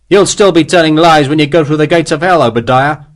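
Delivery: angry scorn. Acted. Sharp berates the liar.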